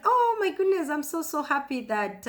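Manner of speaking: high, delighted rush of relief; bursting with joy at the heartbeat; excited. Retold or imitated. Mother hearing the baby's heartbeat is fine, excited relief. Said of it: "I was excited".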